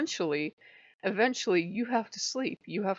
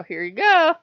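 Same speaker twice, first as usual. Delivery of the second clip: much higher, louder sweet-trickster voice; sly mock-innocent Loki; 10 semitones higher, 11 dB louder than usual. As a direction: hand it over with fake sweetness. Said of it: "offer it to Demon and go".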